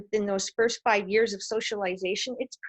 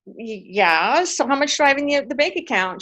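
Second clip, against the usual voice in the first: put-on childhood self pressing; 3 semitones higher, 5 dB louder than usual. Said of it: "And I go".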